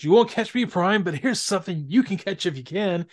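lightly voiced gloating villain; a hint of a hammy cartoon villain; mustache twirling villain. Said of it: "he's twirling his mustache".

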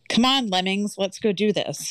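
mildly commanding dom voice. Retold or imitated. Taking charge of a leaderless group, mild dom voice. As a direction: take charge with a light dom voice. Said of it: "that was my dom voice".

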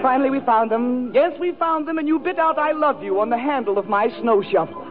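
hammed-up lover's monologue with swelling and dropping pitch; mock-romantic recitation. Reciting a mock love story to Stephanie, hammed-up romantic. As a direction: declaim it like a melodrama love letter.

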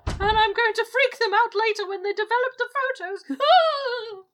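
high, loud wailing ghost. Acted. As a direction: moan like a theatrical ghost. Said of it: "It's a very good ghost impression".

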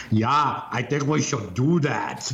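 a light hint of an Austrian accent, slow; Arnold Schwarzenegger impression. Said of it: "impersonation of Arnold Schwarzenegger".

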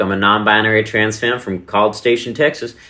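bright stage greeting in a Texan accent. Shown as a demonstration. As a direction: greet the crowd with a Texan howdy. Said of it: "sometimes I go on stage with a Texan accent".

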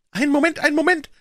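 put-on high, loud, whining old voice; wailing old man. A narrator's reading. Old man wailing from the doorway at the intruders. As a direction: call out in a high, whining wail. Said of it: "rief eine jammernde Stimme".

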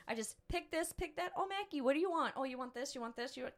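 high, lilting, carefree picking and choosing; breezy shopping singsong. Retold or imitated. Mom showing off how easy grocery shopping is, light singsong. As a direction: breeze through the list like it's nothing.

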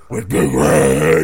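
deep, slow, loud guttural roar; death metal growl. Pretend. Jingle finished as a deep death metal roar. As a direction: bellow it like a death metal frontman. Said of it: "jingle ... a singer".

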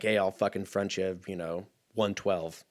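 a hint of Jack Nicholson fronting money; a faint Jack Nicholson offering a loan; Jack Nicholson impression. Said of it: "that's my Jack Nicholson impression".

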